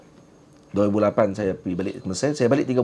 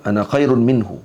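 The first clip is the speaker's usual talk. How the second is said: Iblis's boast; 5 dB louder than usual. Retold or imitated. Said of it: "Keadaan ana dalam tu".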